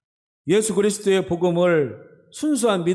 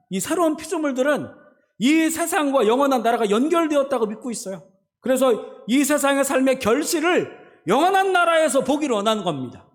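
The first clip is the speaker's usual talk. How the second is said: raised-pitch, insistent pulpit delivery; emphatic preaching; 7 semitones higher than usual. Acted. Preacher urging believers to live for the eternal country, emphatic preaching. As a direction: press the point home in a higher preaching voice. Preacher drives the point home.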